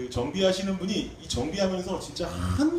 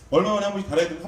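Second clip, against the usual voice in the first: louder repeated question; 4 semitones higher, 5 dB louder, much faster than usual. Retold or imitated. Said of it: "한번 더 물어봤어요".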